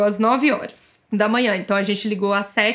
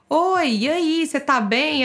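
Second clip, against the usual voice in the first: higher, lilting imitation of a nurse calling; chirpy phone greeting; 6 semitones higher, slower than usual. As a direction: greet them brightly, pitched up, checking in.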